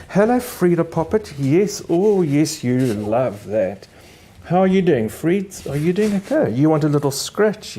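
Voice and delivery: doting owner cooing to her dog on air; cooing pet talk. Real, not acted. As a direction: coo at the pup like a doting owner.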